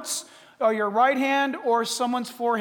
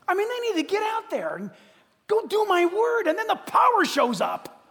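louder and higher, building to a shout; rising shout; 9 semitones higher, 5 dB louder than usual. Retold or imitated. Preacher voicing God urging believers out, building to a shout. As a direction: build to a demanding cry.

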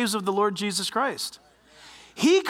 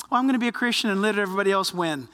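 quick, lower mock-humble voice; mock meek believer; 5 semitones lower, much faster than usual. Preacher mimicking a too-nice Christian, mock meek. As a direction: rattle it off lower, as a feeble excuse. Voicing a weak excuse he rejects.

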